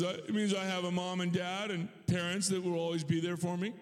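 hint of a small child answering dad; five-year-old son. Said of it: "He says".

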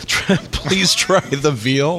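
drawn-out Vegas comedian echo; light mock Rat Pack delivery; slow lounge comic. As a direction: stretch it like a lounge act punchline. Echoes the Vegas comic line.

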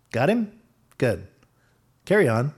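high, loud hammed-up army command; mock commanding officer. Old Naaman ordering archers to fire, mock commanding. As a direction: bark orders like a pompous officer. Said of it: "British or American accent like that".

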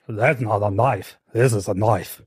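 put-on a faint, half-hearted Australian accent on the knife quote; barely there Australian accent, mock movie hero; bad Australian accent. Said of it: "That is not an Australian accent at all".

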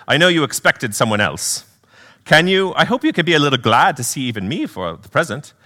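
lightly voiced British spirit; a hint of a kindly British brother; light British accent. Brother hoping his sister is glad, light British accent. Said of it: "do a little accent work".

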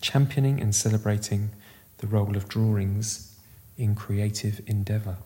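slow hushed commentator; measured, reverent commentary; golf commentator. Acted.

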